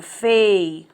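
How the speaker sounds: "fei-u-ra" said slowly, one syllable at a time; split into syllables. Shown as a demonstration. Teacher to class, dividing "fei-u-ra" into syllables. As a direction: break "fei-u-ra" into three beats. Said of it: "divide essa palavra".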